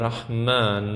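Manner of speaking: front A in رحمن drawn out; رحمن with a long, unrounded aa; long Arabic a. Shown as a demonstration. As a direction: stretch the open a of رحمن. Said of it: "ای کشیده داریم".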